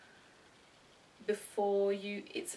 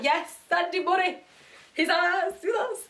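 high, loud mock patriotic cheer; triumphant Brits; 8 semitones higher, 8 dB louder than usual. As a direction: cheer him as one of your own, hammed up. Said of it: "That's, like, the first thing we".

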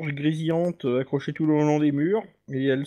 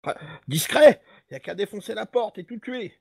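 dwarf voice; 5 semitones higher than usual. Acted.

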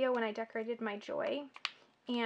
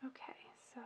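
whisper; 17 dB quieter, much faster than usual. Real, not acted. Concentrating, holding breath.

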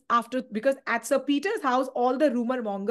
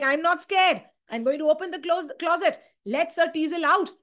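higher, bold and defiant; 5 semitones higher than usual. Acted. Charles defying his brother, higher and bold. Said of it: "Charles is like".

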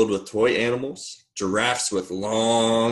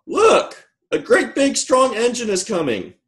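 very high, loud clown cry; high-pitched storybook shout; excited calling out; 13 semitones higher, 4 dB louder than usual. A narrator's reading. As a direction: call out the sighting in a high voice. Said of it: "the little clown called out".

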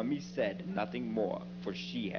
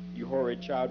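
scolding mother; 5 dB louder than usual. Acted. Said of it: "my mother cried".

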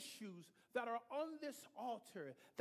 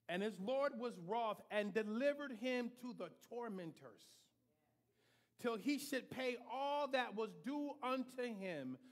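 solemn scripture reading. Real, not acted. Preacher reading King James to congregation, solemn.

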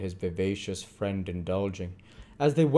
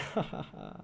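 low, voiceless chuckle; character chuckle; 11 semitones lower, 8 dB quieter than usual. A narrator's reading. Fagin laughs about having nothing to lock up, chuckling. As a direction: chuckle softly at your own claim.

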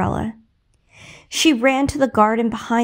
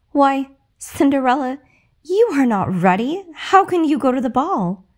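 feigned concern; 4 semitones higher than usual. Acted. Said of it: "asked her stepmother".

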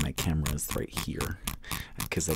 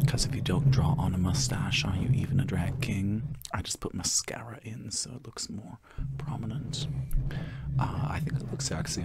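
ASMR whisper; 4 semitones higher than usual. Acted.

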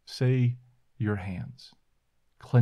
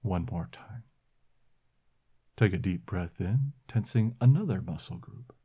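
calm, unhurried breathing cues; guided meditation; 3 semitones lower than usual. Acted. Leads the relaxation exercise.

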